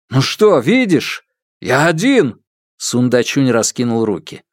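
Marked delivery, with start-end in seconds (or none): 0.1-2.4 raised insistent voice. Acted. Father shows he is alone.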